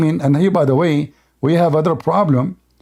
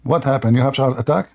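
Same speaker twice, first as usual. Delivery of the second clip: low-pitched, teasing show of worry; mock concern; 5 semitones lower than usual. Debater needles silent opponent about a heart attack, mock concern. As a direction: ask low, feigning worry for a rival.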